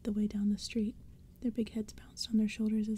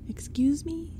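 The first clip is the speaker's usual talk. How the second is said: higher-pitched, incredulous outburst; indignant cry; 6 semitones higher, 4 dB louder, slower than usual. A narrator's reading. Boy questioning the pumpkinheads, crying out. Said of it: "Lee cried".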